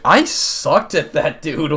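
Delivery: drawn-out, loud self-mocking complaint; loud frustrated groan. Real, not acted. Gamer groaning loudly at own failed fight. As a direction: stretch it out, laughing at yourself.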